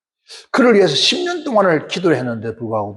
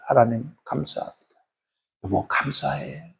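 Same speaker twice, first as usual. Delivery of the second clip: quiet prayer; 2 semitones lower, 7 dB quieter than usual. Retold or imitated. Wife holding her sleeping husband's hand, quiet prayer. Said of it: "조용히 기도".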